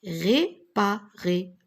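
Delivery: réparer slowly syllable by syllable. Shown as a demonstration. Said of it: "R et ré". (réparer syllabé lentement)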